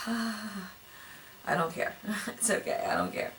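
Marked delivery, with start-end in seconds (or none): 0.1-1.9 slow, stretched-out mock indifference; drawn-out mock. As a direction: drag out every word lazily. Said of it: "I said out loud".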